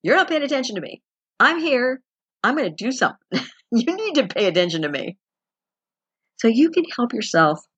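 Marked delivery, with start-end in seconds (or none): 0.0-5.2 higher, insistent voice of a needy body; the body scolding its owner for ignoring it; body demanding attention. Retold or imitated. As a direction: nag like a neglected child. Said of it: "your body's going".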